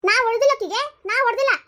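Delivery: loud denial. Acted. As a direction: protest you never hit her. Mother denies hitting, protesting.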